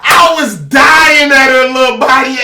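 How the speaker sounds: laughing. Real, not acted. Laughing at the teacher.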